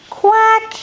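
duck quack. Shown as a demonstration. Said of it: "What does a duck sound like?".

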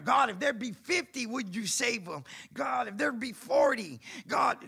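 Abraham bargaining hard with God; bold pleading. Retold or imitated. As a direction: push back at God, raising the stakes.

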